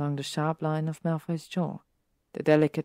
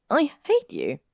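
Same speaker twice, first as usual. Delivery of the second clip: louder, higher yell of fake hatred; mock angry yell; 7 semitones higher, 5 dB louder than usual. Pansy yelling at Malfoy for scaring her, mock angry. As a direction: yell it half laughing at the prankster.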